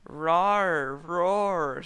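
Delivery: loud, high silly roar; hammed-up roar; mock dragon roar. A narrator's reading. Dragon roaring.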